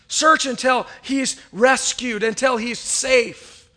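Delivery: slow, drawn-out climax; slow emphasis. Acted. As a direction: stretch each word to land it.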